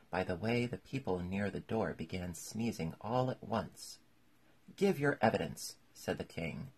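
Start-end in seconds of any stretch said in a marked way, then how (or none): 4.8-5.8 loud, high royal demand; raised courtroom command; commanding order. A narrator's reading. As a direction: order the witness to speak up. King orders witness to testify.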